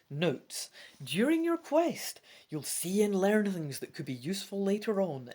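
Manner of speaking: emphatic, measured rules reading; projected storybook-instructions voice; gamebook read-aloud. Acted.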